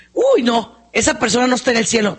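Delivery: judgmental. Retold or imitated. Churchgoer passing judgment on someone else's salvation, mock disapproval. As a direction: imitate a disapproving busybody.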